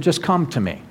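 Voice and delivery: softly voiced, gentle welcome; gentle invitation. Jesus to anybody, whatever they've done, gentle invitation. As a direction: soften into a simple invitation.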